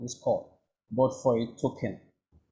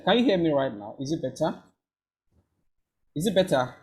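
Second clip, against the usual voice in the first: to someone hard of hearing; 3 semitones higher than usual. Real, not acted. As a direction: speak up so they hear. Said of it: "I can't hear you well".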